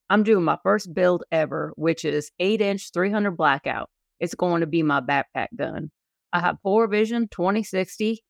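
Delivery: lightly put-on hillbilly reading voice; hillbilly accent. Co-host performs a listener's gun question, hillbilly accent. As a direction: read the message with a hillbilly twang. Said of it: "I'm gonna read it in my best hillbilly accent".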